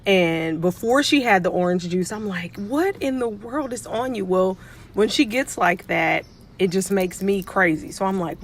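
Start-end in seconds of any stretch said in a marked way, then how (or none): 2.6-4.2 higher-pitched, playful exasperation; mock bewilderment. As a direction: retell your baffled question to a hyper kid. Retold exasperation at hyper kid.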